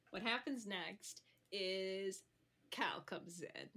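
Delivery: dramatic hushed whisper. Acted. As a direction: lean in and whisper the entrance. Dramatic whisper setting scene.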